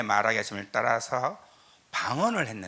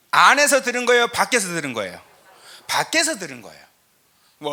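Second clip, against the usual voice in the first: loud, high preaching voice driving the point home; full-force preaching; 9 semitones higher, 9 dB louder than usual. Acted. A pastor preaching to his congregation at full force. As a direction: preach it out over the crowd, much higher and louder.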